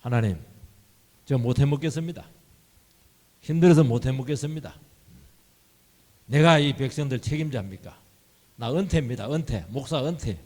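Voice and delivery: a worn-out leader throwing up his hands; exasperated complaint. Retold or imitated. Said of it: "모세는 여기서 이제 막 너무 힘들어했어요".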